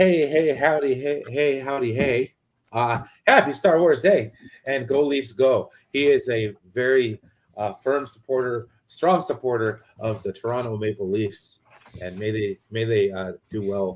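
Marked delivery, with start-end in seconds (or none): 0.0-5.7 fake Canadian accent, thrown on. Reading out a viewer's chat message about the Leafs: put-on Canadian accent. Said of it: "I start throwing on the accent".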